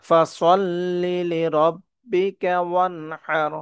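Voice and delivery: ওয়ানহার with ha pressed in the throat. Shown as a demonstration. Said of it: "গলা চাপ দিয়ে বলবো".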